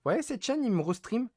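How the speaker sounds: mock streamer complaint. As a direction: imitate yourself griping loudly on stream. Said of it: "des lives en mode".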